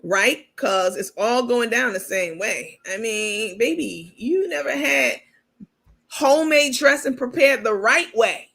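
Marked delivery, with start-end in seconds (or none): 3.6-8.5 mocking the host. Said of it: "I can only imagine how she talked to her patients".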